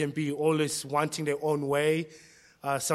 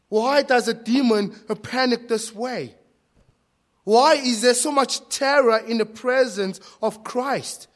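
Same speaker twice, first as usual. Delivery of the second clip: raised, insistent preacher's questioning; forceful preaching; 7 semitones higher, 8 dB louder than usual. Real, not acted. Preacher asking church why demons panic before Christ, forceful. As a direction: press the questions on the congregation.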